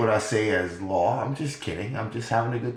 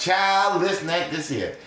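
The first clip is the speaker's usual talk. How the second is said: Madea voice; 4 semitones higher than usual. Retold or imitated. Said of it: "They got Madea on us".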